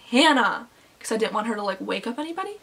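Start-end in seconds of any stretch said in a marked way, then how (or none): 0.1-0.7 raised-voice mock yell; retold yell. Calling to screaming friend without waking anybody, restrained yell. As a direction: call the name out, holding back. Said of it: "And then I yelled".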